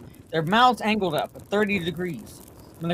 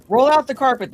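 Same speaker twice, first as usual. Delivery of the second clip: barked order, raised and louder; loud command; 6 semitones higher, 6 dB louder than usual. Acted. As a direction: call the order out hard. Chief giving command.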